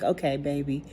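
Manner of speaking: quietly reassuring, as retold; soothing reassurance. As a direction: comfort an upset child, gently played down. Teacher soothes child in retold scene.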